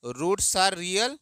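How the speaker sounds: each word drawn out for students to write; slow dictation. Shown as a demonstration. Teacher dictating slowly to students copying notes. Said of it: "तो क्या लिखना?".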